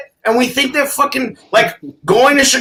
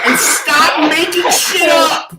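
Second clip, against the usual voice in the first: shouted, higher, slow jabs; angry rant; 4 semitones higher, slower than usual. Real, not acted. Ranting at internet posers, he shouts in anger. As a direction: yell the insult out slowly. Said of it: "And that is your rant".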